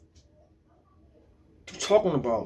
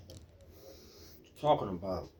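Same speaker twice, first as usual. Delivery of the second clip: softer, slow, almost under the breath; quiet drawn-out question; 12 semitones lower, 17 dB quieter, slower than usual. Real, not acted. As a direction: ask it low and slow, barely aloud. Quiet slow rhetorical refrain.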